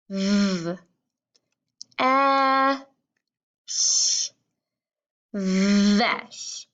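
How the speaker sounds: V, a and sh held apart, then stretched into vesh; drawn-out V, a, sh, then a smooth vesh; sounding out and blending. Shown as a demonstration. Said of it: "One more time, just like that".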